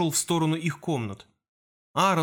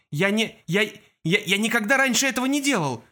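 frightened protest; 6 semitones higher than usual. Acted. Kol protests in fear.

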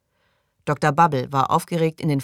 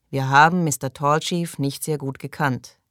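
subdued repeat of the prayer line; group prayer response. A narrator's reading. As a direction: answer the leader evenly, in your usual pitch. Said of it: "wiederholten sie". (gleichmäßig nachbetend)

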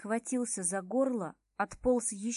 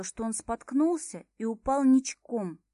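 ordinary delivery

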